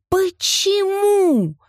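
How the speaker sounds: Почему very high and stretched out, falling; varied reading. A narrator's reading. He mocks the question Почему, very high and drawn out. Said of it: "произносил он по-разному".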